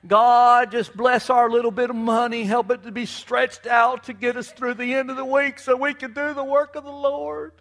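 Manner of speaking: hammed-up humble, pleading prayer; mock pitiful prayer. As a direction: mimic a falsely humble churchgoer begging God. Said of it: "we would act all humble and pitiful and say".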